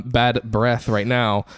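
"bad breath right now" dragged out very slowly, word by word; very slow playful repeat of "bad breath right now". Shown as a demonstration. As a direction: linger on "bad" and drag the whole phrase.

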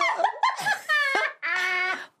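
a high laugh that bursts out. Real, not acted. Guest laughing at her own face pose in a high burst. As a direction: break into laughter at yourself.

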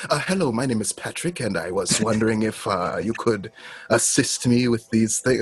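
imitated professional British-tinged accent; careful, formal Jamaican-to-British accent; British-leaning code switch. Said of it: "it goes to a more British thing".

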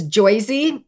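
"Joyzy" said with an oy sound for the er of Jersey; mocking Jersey pronunciation. Mocking Jersey accent from an outsider making a joke. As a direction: drop the r and say "Joyzy" like an outsider joking. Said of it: "if anyone says".

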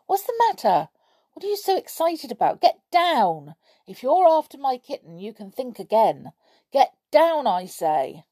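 high loud anxious commands; shouting at dog. Acted. Boy fending off the leaping dog, loud high shouts. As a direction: drive the dog back.

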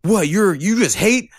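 high, shrill indignant mimicry; outraged mock voice. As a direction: squeal it like an offended critic. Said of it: "people are like".

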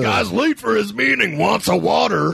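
commentator voice. Pretend. Mimicking commentator.

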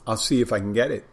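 talking while chewing; mouth full. Real, not acted. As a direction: speak through a mouthful of food. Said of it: "I'm munching when I'm doing this stuff".

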